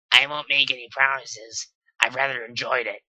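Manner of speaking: lightly voiced sly Dash; Dash's voice. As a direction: say it with a wink. Dash winking reply.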